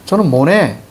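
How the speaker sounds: "모네" said with an n in place of the t sound; student's mispronunciation. Acted. Teacher mimics a student who cannot do sound changes, "모네" with an n. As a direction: imitate a student saying "mo-ne" for "mo-tae". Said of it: "이렇게 발음하면 안 돼".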